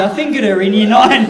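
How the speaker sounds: punchline blurted out loud over the laughter; loud shocking punchline; punchline shout. Real, not acted.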